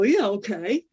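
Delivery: cocky, sceptical yeah-okay lifting at the end; mildly smug doubt; retold cocky. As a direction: play along without believing a word. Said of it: "kinda cocky".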